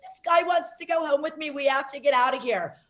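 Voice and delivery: high squeal of alarm, then settling; mock a drunk friend's panic; imitating a frantic squeal; panicked blonde friend. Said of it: "my little blonde girlfriend's like".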